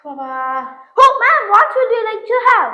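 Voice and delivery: slow, drawn-out waiter English; coffee-shop waiter taking the order in slow English; posh waiter. Acted. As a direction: play a café waiter stretching every word. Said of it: "அம்மா இங்கிலீஷை இப்ப நீ பாரு".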